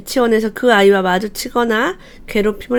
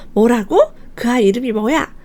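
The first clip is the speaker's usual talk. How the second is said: hammed-up outrage at the bully; fake-angry threat, played to comfort the child; mock furious mom; 2 semitones higher than usual. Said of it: "나쁘게 이렇게 얘기를 해준 거죠". (아이 편 들며 과장되게 화내는 엄마)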